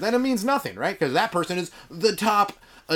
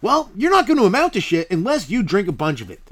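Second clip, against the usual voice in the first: high, beaming salesman voice in a skit; pushy pitchman; 5 semitones higher, 5 dB louder than usual. Acted. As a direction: sell it like a cheesy TV ad guy. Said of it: "I got a commercial coming up".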